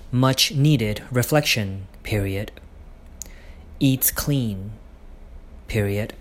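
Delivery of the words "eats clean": whispered aside. Real, not acted. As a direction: breathe it out as a whisper.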